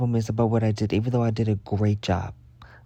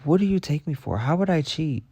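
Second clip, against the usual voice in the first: higher, indignant disbelief; mock-offended student arguing innocence; incredulous retort; 5 semitones higher than usual. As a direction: protest the accusation, high and outraged. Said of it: "I'm like".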